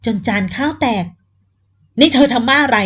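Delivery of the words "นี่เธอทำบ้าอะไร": louder, sharp demand; angry outburst. Acted. Man furious at Fan for breaking the plate, loud angry demand. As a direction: snap at her for smashing the plate. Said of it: "ถามด้วยความโมโห".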